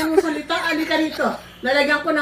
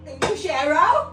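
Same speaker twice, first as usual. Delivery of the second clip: mocking echo; slower than usual. Mother mockingly repeats slowly.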